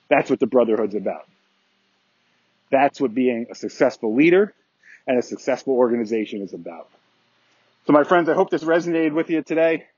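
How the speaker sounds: out of breath. Real, not acted. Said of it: "Sorry I'm slightly out of breath".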